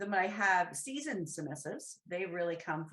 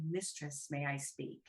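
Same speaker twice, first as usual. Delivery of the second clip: quiet request; 3 semitones lower, 5 dB quieter than usual. Retold or imitated. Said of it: "They need to say".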